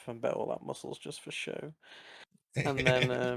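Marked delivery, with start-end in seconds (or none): 0.1-1.7 soft mutter under the breath. Acted. Mal grumbling about Zudar's muscles, soft mutter. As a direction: grumble it quietly aside. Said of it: "mutter under his breath".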